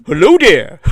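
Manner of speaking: loud, dorky cartoon greeting; Elmer Fudd voice. Retelling a blind stranger's greeting in a cartoon voice. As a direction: mimic a goofy cartoon hunter saying hello. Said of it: "Like Elmer Fudd".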